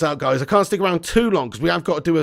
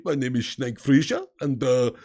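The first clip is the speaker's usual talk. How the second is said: Snake Fraser impression; 3 semitones lower than usual. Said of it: "I sound like Snake Fraser".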